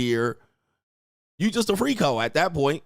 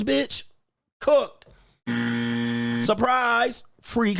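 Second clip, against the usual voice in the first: exclaiming; 7 semitones higher, much slower than usual. Real, not acted. Ranting verdict on the women.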